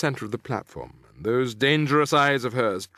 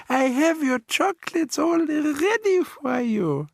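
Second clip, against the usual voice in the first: much higher, slow, sweetly false witch; soft and gentle; 3 dB louder, slower than usual. A narrator's reading. Grand High Witch coaxing Bruno onto the stage, falsely gentle. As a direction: purr the bait softly. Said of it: "Her voice was quite different now. It was soft and gentle".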